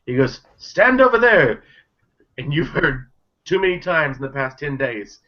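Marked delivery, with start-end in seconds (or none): 0.6-1.6 high, slow barked order; command shout. Acted. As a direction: order him across the room. Shopkeeper orders Dacre to stand.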